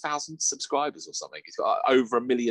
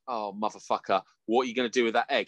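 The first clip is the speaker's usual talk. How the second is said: exasperated; 2 semitones lower than usual. Retold or imitated. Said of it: "I was like".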